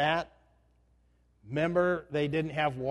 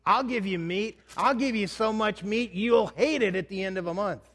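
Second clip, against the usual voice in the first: higher, mock stern God voice; angry God; 4 semitones higher than usual. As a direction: scold them as fed-up God. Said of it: "God says".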